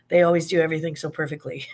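fast, dry mock praise; sarcastic. Vlogger mocking the Postal Service, fast sarcastic praise. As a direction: rattle off the fake compliment quickly. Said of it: "I can barely finish that sentence".

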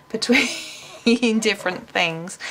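"between" redone in her own accent through a laugh; laughing correction. Real, not acted. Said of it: "I don't know what happened to my accent then".

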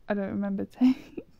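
"take" said with a laugh breaking in. Real, not acted. Gamer laughing at forgetting "take", laughing. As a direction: laugh at yourself mid-line. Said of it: "What, what's take?".

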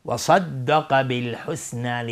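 heavy s in صدق, light s in بالحسنی; slow recitation contrasting صدق with بالحسنی; sad then sin. Shown as a demonstration. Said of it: "صاد بعد سین میاد".

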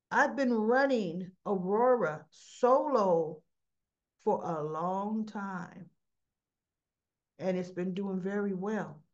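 slow, weighty imitation of self-defence; measured, drawn-out claim; deliberate retold assertion. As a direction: make the point slowly, phrase by phrase.

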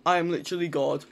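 shouting in triumph, loud; megalomaniac rant. Real, not acted. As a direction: boast like a god, yelling. Triumphant after a kill.

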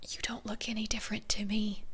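unvoiced whispered aside. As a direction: whisper it to the screen. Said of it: "And I'm like".

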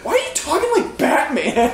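sarcastic. Retold or imitated. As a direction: needle him, amused. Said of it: "I said it all sarcastic like that".

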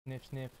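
two quick sniffs through the nose; sniffing the air. Real, not acted. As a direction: sniff the air like smelling something good. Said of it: "I don't know why I sniffed that".

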